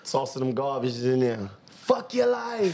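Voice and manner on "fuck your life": laughing high drawl. Real, not acted. Mocking garbage job.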